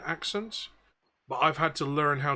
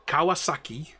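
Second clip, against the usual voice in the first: tag Newcastle accent. Shown as a demonstration. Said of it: "how to do a Newcastle accent".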